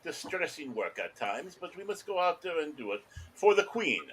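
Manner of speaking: low, plummy lightly voiced British gent; posh British accent. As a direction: play a stuffy Brit loyal to the Queen. Pompous British hedgehog.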